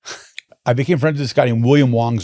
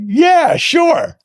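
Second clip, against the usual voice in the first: much higher, louder mock Australian yeah sure; eager Australian yes; 5 dB louder than usual. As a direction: shout it like a cheery Aussie mate. Australian friend agreeing in story.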